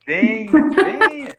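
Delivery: alto, agudo e acolhedor, chamando de longe; chamando animado. Pretend. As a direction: convida com entusiasmo. Espírito chamando do outro plano. (o plano espiritual chama o recém-chegado, animado)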